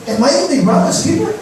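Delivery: a touch of insolent sarcasm; cheeky retort. Acted. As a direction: fling it back rudely. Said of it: "mabubwisit ka?".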